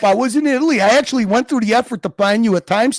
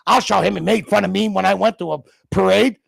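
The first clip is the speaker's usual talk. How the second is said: mock Curly Junior; 3 semitones lower than usual.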